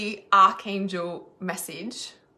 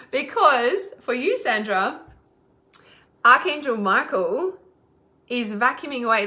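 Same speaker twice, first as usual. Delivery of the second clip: emphatic; 4 semitones higher, 7 dB louder than usual. Real, not acted. Emphatic message delivery.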